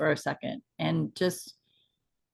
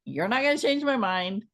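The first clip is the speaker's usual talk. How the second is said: higher, firm and resolute; determined; 6 semitones higher than usual. Retold or imitated. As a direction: state it like nothing will change your mind. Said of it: "setting the intention of".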